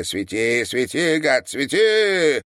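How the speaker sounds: building from spoken level to a high cry; slow, rising challenge; defiant repetition. A narrator's reading. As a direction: start plainly, climb to a stretched shout. Keeps repeating his defiant cry.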